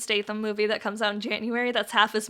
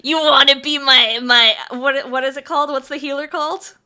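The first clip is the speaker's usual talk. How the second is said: fake deep E-boy voice; 7 dB louder than usual. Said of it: "fake doing the really deep voice".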